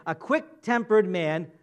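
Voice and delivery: slow, deliberate verse read; scripture reading. Shown as a demonstration. Preacher reading the verse aloud to congregation, slow and deliberate. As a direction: read the verse slowly, word by word. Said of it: "Look at the verse again".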